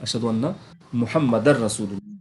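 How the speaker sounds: quiet, slow اشہد ان محمدر رسول اللہ, the ر of محمدر joined to رسول; slow recitation demo. Shown as a demonstration. Teacher repeats the recitation softly for the student. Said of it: "اس کو پڑھنے کا طریقہ بولیے".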